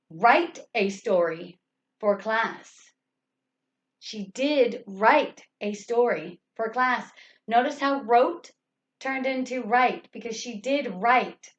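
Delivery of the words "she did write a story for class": slow sentence with emphatic did; did exaggerated, words set apart; stress on did. Shown as a demonstration. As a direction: spell it out slowly, leaning on did. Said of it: "You want to exaggerate".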